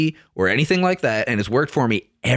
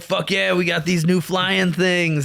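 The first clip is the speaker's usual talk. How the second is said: higher, hyped-up bro voice; mock-excited cheer, pitched up; mock gung-ho; 4 semitones higher, slower than usual. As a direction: play the overexcited eighties exec. Mock eighties helicopter makers.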